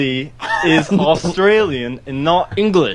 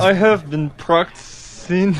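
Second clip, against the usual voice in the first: put-on a clumsy, halting try at an English accent; bad English accent; 3 dB quieter than usual. Intern on a radio show tries a bad English accent for the hosts. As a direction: stiff fake English accent, words slowed. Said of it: "What is that?".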